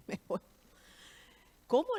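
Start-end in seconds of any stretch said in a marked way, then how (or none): 1.7-2.0 high, loud retold "what?"; mock astonished exclamation. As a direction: act out a startled, incredulous mother. Retold mother reacts in disbelief.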